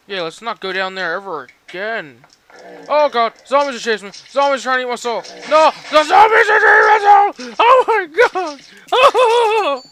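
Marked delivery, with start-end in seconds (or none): 2.9-5.2 frantic. Real, not acted. Zombies chasing the player. 5.5-9.8 much higher, louder panicked shrieks; terrified screaming. Real, not acted. Being chased by zombies.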